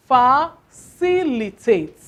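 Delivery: facilitate drawn out slowly, leaning on ci; stress on facilitate. Shown as a demonstration. Teacher modelling exam word stress, slow and deliberate. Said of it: "you stress the word where?".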